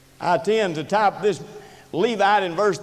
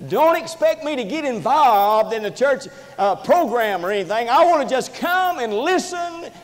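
tag; 8 semitones higher, 4 dB louder than usual. Acted. Voicing a reluctant church member.

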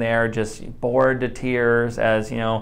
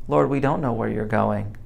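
desperate cry; 5 dB quieter than usual. Acted. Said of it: "you just hear the cry of someone who so desperately loves Jesus".

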